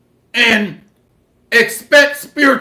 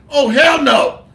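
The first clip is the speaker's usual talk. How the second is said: heated storytelling shout; 3 semitones higher than usual. Retold or imitated. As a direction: burst in outraged. Husband storms in on wife.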